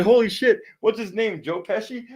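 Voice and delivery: giggly high joke about the dog; mocking amazement. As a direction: tease the dog's looks with a cackling squeal. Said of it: "I said, I said".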